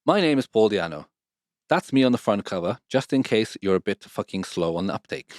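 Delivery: book foreword read with relish; reading aloud. Acted. To his co-host, reading the book foreword aloud. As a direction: read it like an audiobook.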